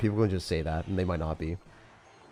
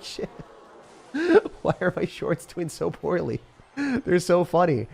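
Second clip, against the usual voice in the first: high, drawn-out mock wail; laugh, then lament it slowly and high; mock dismay; 10 semitones higher, 3 dB louder, slower than usual. Streamer re-enacts dismay at his shorts flopping, wailing high.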